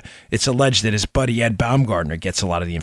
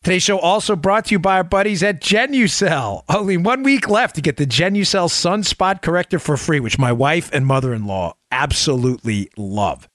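infomercial. Acted. Sponsor read.

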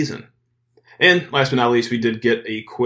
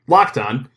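"Locked On" run together as one name, punched at the start; said as one word; 2 semitones higher, 6 dB louder than usual. Shown as a demonstration. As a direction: hit "Locked" and run straight into "On". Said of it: "That's one word".

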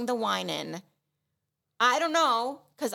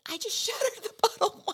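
embarrassed confession; 11 semitones higher than usual. Retold or imitated. Confessing to the manager.

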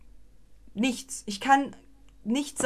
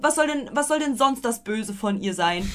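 usual speaking voice

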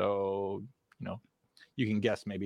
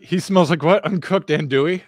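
louder, higher, can't believe what he heard; incredulous disbelief; 6 semitones higher, 8 dB louder than usual. Real, not acted. Friend repeating a rumor back in loud amused disbelief.

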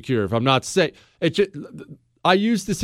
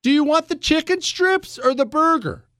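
much higher, breezy mock-cheerful offer; clueless cheery captain; 11 semitones higher than usual. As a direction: play the oblivious captain chirping about lunch. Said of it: "leans over to the mother and says".

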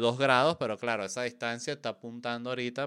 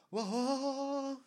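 high, soft breathy-free diva exclamation; a high showbiz wow; 5 dB quieter than usual. Pretend. Cierre del show drag. (wow agudo de diva)

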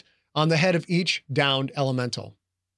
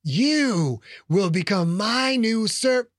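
ancient rasping undead king; 5 semitones higher, slower than usual. Acted. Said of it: "The Lich raised its bony".

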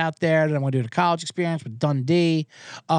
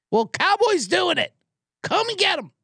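exasperated retort; 11 semitones higher than usual. Retold or imitated. Retort to the dog's owner.

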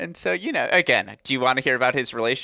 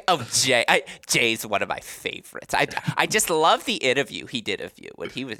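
a hint of his mom, barely changed; mild gushing mom impression; lightly voiced gushing mom. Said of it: "that's not what she sounds like either".

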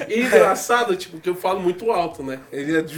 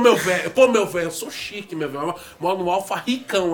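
imitating Coimbra; 3 semitones lower than usual. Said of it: "ele fala".

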